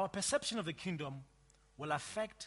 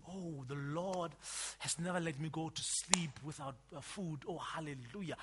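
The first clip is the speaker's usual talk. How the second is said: lightly imitated pious believer, lower and softer; believer's testimony; 4 semitones lower, 6 dB quieter than usual. Preacher mimicking believers' testimonies, lightly put-on piety. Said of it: "I, I always hear believers".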